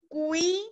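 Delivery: „Cuidado“ Silbe für Silbe, cui-da-do, mit deutlichen Pausen; Silbentrennung. Shown as a demonstration. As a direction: split "Cuidado" into cui, da, do with long gaps. Teacher splits example into syllables.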